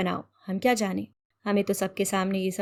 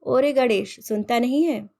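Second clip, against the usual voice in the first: louder, higher shout after someone walking away; shouting after him; 3 semitones higher, 4 dB louder than usual. Acted. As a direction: yell his name, annoyed he won't listen. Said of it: "मैं फिर चिल्लाई".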